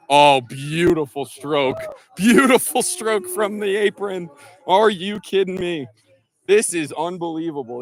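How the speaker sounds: high, loud golf call; excited commentator. Pretend. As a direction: marvel at the stroke on air. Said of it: "getting my Sports Center on here".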